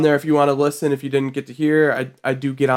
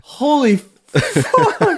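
laughing; 12 semitones higher, much slower than usual. Real, not acted. Reacting to the funny AI clip.

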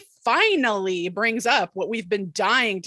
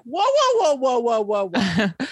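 alarmed backpedaling; 2 semitones higher, slower than usual. Retold or imitated. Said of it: "Pacey's like".

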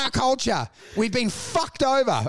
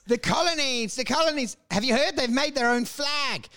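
higher, lightly put-on marvelling; mock colonial gossip; 4 semitones higher than usual. Homeland folk gossiping about the colonies, mildly mock-amazed. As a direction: imitate someone tickled by distant news.

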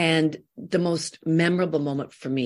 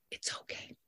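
soft breathy whisper of comfort; quiet reassuring whisper; 18 dB quieter than usual. Retold or imitated. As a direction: whisper it gently to a crying actress. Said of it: "she said".

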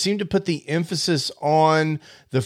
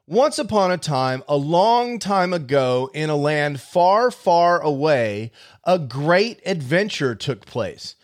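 storybook narration. Acted. Host demoing software with a story, storybook narration. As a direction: read it like the opening of a fairy tale.

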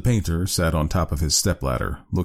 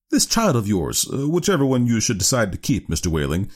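lightly voiced doctor, pitch raised then dropping; lecturing doctor; 6 semitones higher than usual. Doctor discussing the chosen child, lightly lifted voice. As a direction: address the father with official assurance.

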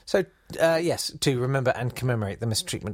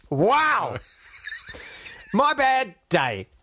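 mock casual apology; 9 semitones higher, much slower than usual. Mocking apology day name.

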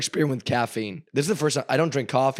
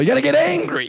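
high, loud fired-up yell; mock shout; 7 dB louder than usual. Explaining the dodgeball mindset, high mock yell. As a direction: shout it like a coach.

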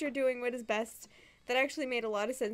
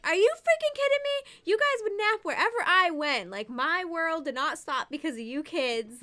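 high, loud, exasperated mock yell that eases off; mom's outraged rant; 7 semitones higher, 5 dB louder than usual. Mom of nine mocked as she yells at complaining kids, exasperated. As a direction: imitate a fed-up mom blowing up at her kids. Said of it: "she'd be like".

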